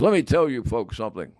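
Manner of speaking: a hint of the folksy sports-radio host; Myron's radio voice. Myron addressing listeners on his radio show, lightly imitated. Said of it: "this is the way he said it".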